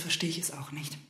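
leise, resigniert geflüstert. Acted. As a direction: die Worte fast verschlucken. Resigniert im Ehestreit. (Frau zum Mann, resigniert geflüstert)

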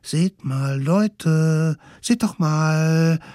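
put-on high, eager children calling out; small kids pointing excitedly; excited kids' voice. Little wild ones call out.

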